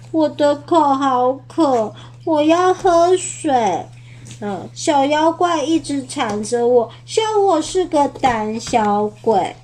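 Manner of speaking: 慢慢地带哭腔诉苦; 委屈地抽泣着要水; 流着眼泪说. Acted. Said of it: "他流着眼泪说". (阿宝流着泪向爸爸妈妈诉苦)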